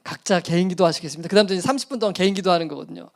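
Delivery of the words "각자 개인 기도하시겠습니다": curt closing prayer. Retold or imitated. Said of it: "제가 너무 화가 나가지고".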